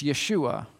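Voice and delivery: Yeshua said yeh-SHOO-ah; name the Hebrew form Yeshua carefully. Shown as a demonstration. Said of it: "if you say the same name in Hebrew".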